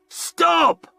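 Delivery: high, loud roar. A narrator's reading. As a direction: command the mob to stop. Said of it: "roared Curbman".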